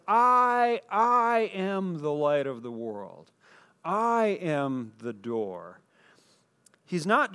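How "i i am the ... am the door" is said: quoting Jesus, building solemn emphasis on I; emphatic repetition. Retold or imitated. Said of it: "grammatical emphasis where he says".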